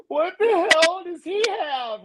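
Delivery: high, slow disbelieving question; what does he have that I don't; incredulous. Retold or imitated. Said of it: "And I'm like".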